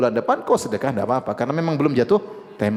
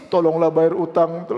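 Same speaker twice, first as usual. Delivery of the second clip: slow, drawn-out plea; mock begging; slower than usual. Lender pleads like a beggar for repayment, mock begging. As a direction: imitate a lender reduced to begging. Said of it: "seperti ngemis-ngemis".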